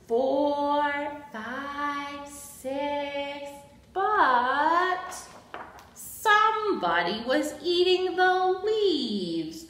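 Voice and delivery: slow, emphatic picture-book narration; reading to children. A narrator's reading. Storyteller introduces Abigail's love of counting, reading to children. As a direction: read it to small children, stretching key words.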